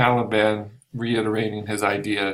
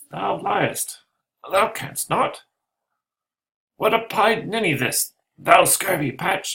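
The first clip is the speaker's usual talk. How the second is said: much higher impish taunting voice; Ariel's taunt; 10 semitones higher, 3 dB louder than usual. Acted. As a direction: needle them from hiding, high and sly. Invisible Ariel mocks in voice.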